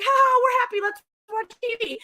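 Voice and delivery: high, mock-happy sitcom couple; forced cheer. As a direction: chirp it with put-on happiness. Acting couple pretending all is fine.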